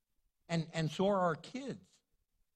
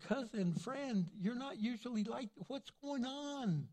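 gentle plea; 4 semitones higher, 4 dB quieter than usual. Acted. Tender pleading to spouse.

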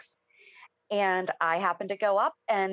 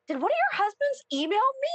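quoting Bradford; faster than usual. Retold or imitated. Bradford asking the fans.

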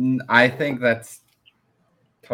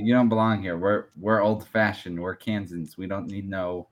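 mock southern accent, trailing softer; 4 semitones lower, 6 dB quieter than usual. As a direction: grumble it like an old-fashioned southerner. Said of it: "why do you get a southern accent".

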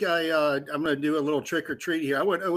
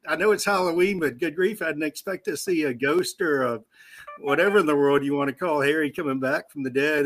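hiccup giggles; 3 semitones higher, 5 dB louder than usual. Real, not acted. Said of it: "but I can't stop laughing".

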